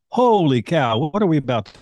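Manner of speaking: retold astonishment. Housemate recalls seeing a shocking book on arrival, astonished. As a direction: react in mild alarm, imitating the moment.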